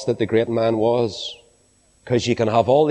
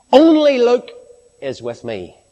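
plaintive cry; 10 semitones higher, 5 dB louder than usual. Retold or imitated. Paul dying, calling for his friends: plaintive high cry. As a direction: cry out "Only Luke" like a lonely dying man. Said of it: "that beautiful plaintive cry".

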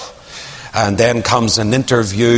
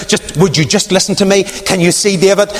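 a hint of a pleading woman, raised; 5 semitones higher than usual. Abigail pleading with David, lightly voiced. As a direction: beg him gently to listen. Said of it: "she's saying".

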